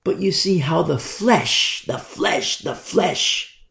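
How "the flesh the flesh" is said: soft, secret-like repetition; hushed whisper. Acted. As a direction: whisper "the flesh" twice, barely voiced. Preacher drops to hushed repetition.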